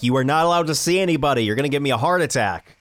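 quick, mildly exasperated scolding; retold yelling. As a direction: imitate yourself telling off your parents. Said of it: "I keep yelling at them".

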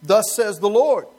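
slow, loud, hammed-up decree; mock wife's proclamation. Preacher imitates a wife's mock-solemn proclamation. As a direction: play the wife as a grand prophet. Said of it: "you ever have your wife say that".

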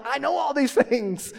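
fake-grateful, brushing off the doubters; a hint of mock politeness, laughing; sarcastic thanks. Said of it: "And I'm like".

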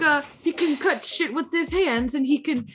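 mock Italian storytelling; Italian accent. Listing Edward's talents for friends, mock Italian accent. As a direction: keep up a put-on Italian accent. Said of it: "I'm trying to get the accent".

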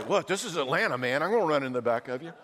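fast, hammed-up Atlanta road rage; enthusiastic road rage. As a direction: rattle it off like a fired-up driver. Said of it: "Need a little more enthusiasm than that".

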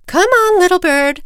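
loud, high sing-out call; mother calling out. Acted. Mother bird summons chick to fly south, calling out. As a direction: holler brightly for the child to come.

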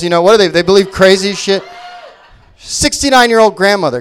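usual speaking voice

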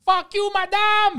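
very high, loud, drawn-out insult; mock scream. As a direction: imitate a waiter screaming at a customer. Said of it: "He starts screaming".

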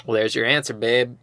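a hammed-up too-cool teen; mock cool guy. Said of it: "And he's like".

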